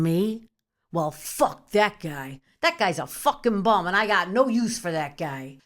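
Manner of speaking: loud, rising disbelief that builds into a rant; hot-headed Italian outburst. Acted. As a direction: rant like a furious Italian relative over the injustice. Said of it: "my Italian came out".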